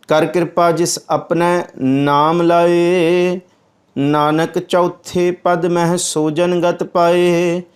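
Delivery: slow, measured recitation of the verse; scripture recitation. Acted. Preacher reciting the verse to the congregation, slow and measured. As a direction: intone each word slowly.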